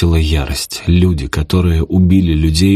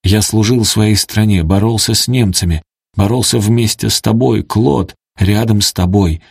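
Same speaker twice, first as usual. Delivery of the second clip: pleading; 4 semitones higher than usual. Acted. Robert pleads with Claude.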